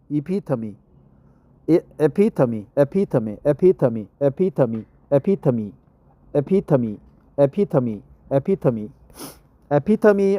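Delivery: "epitome" repeated as uh-PIT-uh-mee; pronunciation drill. Shown as a demonstration. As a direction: drill "epitome" evenly, stress on the second syllable. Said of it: "Repeat after me".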